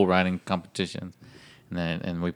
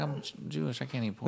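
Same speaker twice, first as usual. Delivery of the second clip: higher, laughing mock protest; laughing excuse; 7 semitones higher than usual. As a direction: plead it through a laugh.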